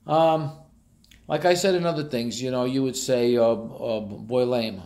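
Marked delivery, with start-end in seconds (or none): 4.0-4.8 "Boilema" dito como uma só palavra, BOI-le-ma; Jersey "boilema". Shown as a demonstration. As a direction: engula o D e o H de boiled ham. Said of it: "That's boiled ham".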